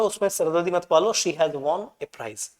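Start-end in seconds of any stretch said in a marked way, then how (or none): 1.1-2.5 "she has won a prize" read out slowly. Shown as a demonstration. Teacher reading the correct sentence, slow. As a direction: read the answer word by word. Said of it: "पूरा sentence पढ़ो".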